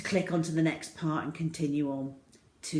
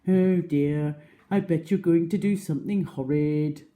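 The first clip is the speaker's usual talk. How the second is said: louder fretful hippo; worried hippo; 5 dB louder than usual. Acted. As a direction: fret over the croc.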